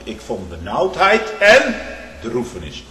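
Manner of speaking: high, loud, drawn-out lament; anguished cry. Acted. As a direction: cry out in distress to God. Quoting a psalm of distress.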